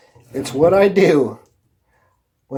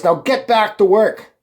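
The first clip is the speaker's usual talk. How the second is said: imitating an aggressive foreman, mildly; aggressive order. Foreman ordering a worker back to work, mildly aggressive. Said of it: "he said in a really, um, aggressive voice".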